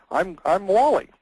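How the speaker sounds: a hint of a chirpy bird; parrot voice. Parrot introduces itself to the burglar, light parrot voice.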